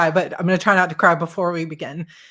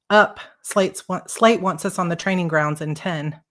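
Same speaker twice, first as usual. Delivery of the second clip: calling out; 3 dB louder than usual. Acted. Callie wakes narrator with pillow.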